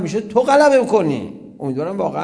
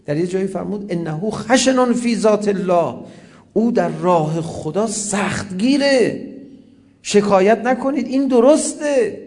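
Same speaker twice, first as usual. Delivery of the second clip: loud and higher, pressing the point to stop the complaints; forceful retold shout; 4 semitones higher, 3 dB louder than usual. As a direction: proclaim it firmly, slowing on the Arabic. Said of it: "چندین بار فریاد زد". (فریاد قاطع و بلند، با تأکید)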